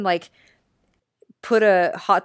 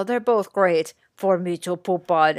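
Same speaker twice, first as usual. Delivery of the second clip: put-on Triumph's Eastern European accent. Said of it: "and he's like".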